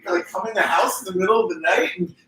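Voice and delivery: high, mocking disbelief; sarcastic disbelief. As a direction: scoff at the excuse.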